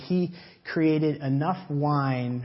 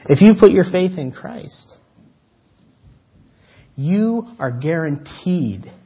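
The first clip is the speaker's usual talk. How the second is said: louder, ringing promise to the congregation; loud preaching peak; 2 semitones higher, 8 dB louder than usual. Acted. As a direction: proclaim it boldly to the church. Peak of sermon.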